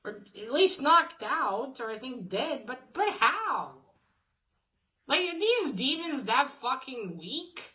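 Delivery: puzzled, questioning the story; baffled. Real, not acted. Recapper doubting the demons, still baffled.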